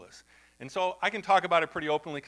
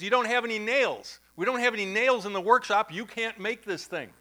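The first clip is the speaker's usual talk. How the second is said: imitated Haitian French accent, higher; hammed-up French accent like Clouseau; 7 semitones higher, 4 dB louder than usual. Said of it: "And they have this French accent".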